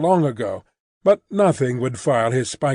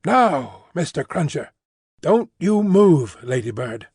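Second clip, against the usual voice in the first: a hint of a bustling English maid; Miss Pross voice.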